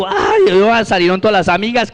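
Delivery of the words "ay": high, drawn-out imitation of crying; mock loud wailing. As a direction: wail like the heartbroken girlfriend, hammed up. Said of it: "se puso a llorar a los gritos".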